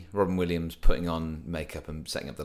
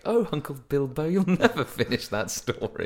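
Frodo voice; 6 semitones higher than usual. Retold or imitated. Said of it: "and then Frodo's like".

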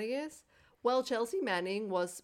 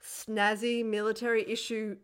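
mock indignant; 3 semitones higher, 6 dB louder than usual. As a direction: complain like it's a real injustice. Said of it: "me to be like".

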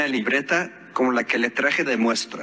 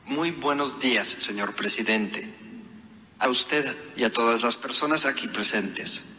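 robotic text-to-speech voice; synthesized voice. Real, not acted. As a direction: read it like a phone's speech app. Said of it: "esto que usted escucha es una voz sintetizada". (voz sintetizada de computadora)

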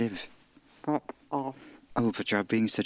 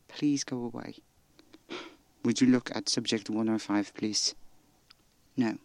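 normal talking voice

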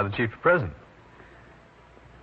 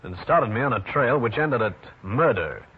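raised, unhurried host introduction; radio detective intro; 2 semitones higher than usual. A narrator's reading. Narrator-host introduces the story.

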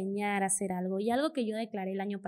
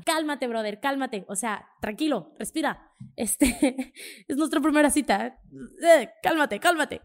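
laughing, calm down; 4 semitones higher, 6 dB louder than usual. Retold or imitated. Telling an eager date to calm down.

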